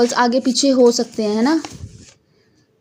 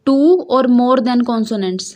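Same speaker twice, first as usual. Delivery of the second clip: slow reading; much slower than usual. Shown as a demonstration. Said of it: "मतलब कि".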